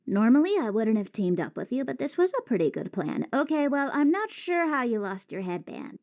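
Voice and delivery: put-on blunt, monotone teen girl; deadpan the line, froggy. Shown as a demonstration. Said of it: "let's compare and contrast".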